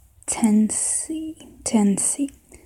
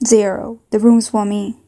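put-on southern accent; 4 dB louder than usual. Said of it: "maybe a southern accent".

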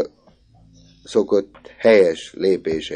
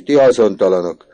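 much louder, much higher scolding shout; shouting teacher; 10 semitones higher, 13 dB louder than usual. A narrator's reading. Teacher shouting from the window at boys, furious. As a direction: yell at the spying boys. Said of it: "kiáltott ki".

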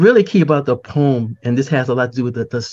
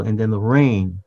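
gentle reading; 3 semitones lower than usual. Shown as a demonstration. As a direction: let the rain fall gently, like a cleansing. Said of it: "make it very gentle".

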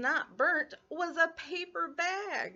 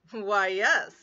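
louder, smug yes; proud dragon; 7 dB louder than usual. Acted. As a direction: dragon preening.

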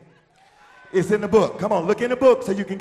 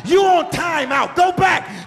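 raised, forceful order building to a shout; commanding rebuke; 5 semitones higher, 5 dB louder than usual. Shown as a demonstration. Preacher telling the devil to go back, commanding rebuke. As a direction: rebuke it with full authority. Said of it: "Look that devil square in the eye and tell him".

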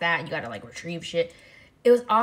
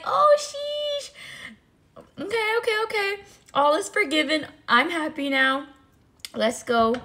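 very high, squealing happy voice; giddy relief; 12 semitones higher, 4 dB louder than usual. Retold or imitated. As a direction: gush like all is forgiven. Forgiving the brother, overjoyed.

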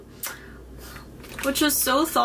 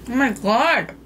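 amazed; 4 dB louder than usual. Real, not acted. Reacting to the taste.

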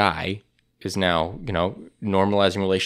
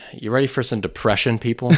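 announcer voice; 3 semitones higher than usual. Acted. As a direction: hype announcer intro. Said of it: "You gotta use that voice more often".

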